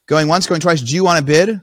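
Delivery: a hint of an auctioneer calling for bids; lightly voiced auctioneer. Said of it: "the lady goes to bid it".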